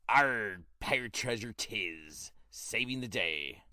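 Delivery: slow dramatic trailer voiceover; movie trailer voice. Acted. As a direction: epic trailer narrator. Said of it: "I just said it in a trailer voice".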